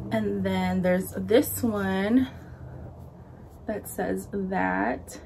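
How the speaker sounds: breathless and slow; talking while winded; out of breath. Real, not acted. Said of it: "I'm, like, so out of breath".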